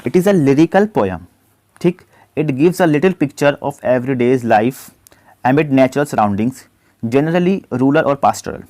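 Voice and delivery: slow, deliberate dictation of the question; slow question read-out. Acted. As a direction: read it out word by word for students. Reads quiz question slowly. (धीमी आवाज़ में प्रश्न पढ़ना)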